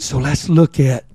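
ordinary talk, nothing marked

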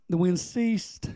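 ordinary delivery

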